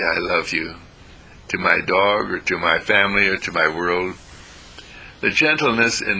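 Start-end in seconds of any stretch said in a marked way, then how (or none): 0.0-0.7 gentle. Shown as a demonstration. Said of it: "The gentleness in my voice".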